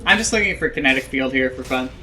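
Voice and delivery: talking through a yawn. Real, not acted. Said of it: "Man, I'm yawning".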